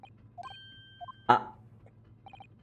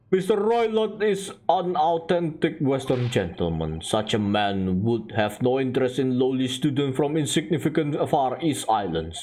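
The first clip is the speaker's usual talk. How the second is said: put-on lower, dismissive Russian accent; Russian-accented sailor, haughty; 5 semitones lower than usual. Sailor scorning the Japanese student, haughty Russian accent. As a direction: talk down to them in a Russian accent.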